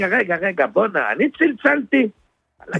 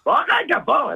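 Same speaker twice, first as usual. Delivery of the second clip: high-pitched yell to someone across the shop; raised, high calling voice; 9 semitones higher than usual. Acted. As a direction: holler for him to come over. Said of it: "למה אתה צועק?".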